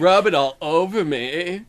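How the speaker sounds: slow, drawn-out mock craving; greedy body voice. Co-host voicing their junk-loving body, mock greedy relish. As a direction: play a body indulging in junk. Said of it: "My body's like".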